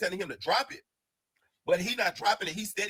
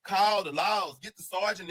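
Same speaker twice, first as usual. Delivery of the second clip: retold yell; 4 semitones higher than usual.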